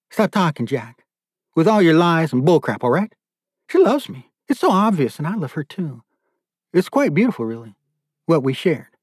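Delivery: high-pitched, self-satisfied lovestruck captor; deluded captor. Acted. Captor insisting the daughter loves him, deluded and high-pitched. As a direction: cut him off, then gush in a high voice.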